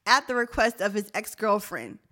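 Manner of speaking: measured news-style reading; reading article aloud. Real, not acted. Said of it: "and it says".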